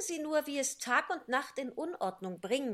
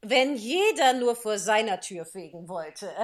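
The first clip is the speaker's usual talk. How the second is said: heiser gebrummt; 4 dB louder than usual. Acted. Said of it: "brummte die Herzogin mit heiserer Stimme".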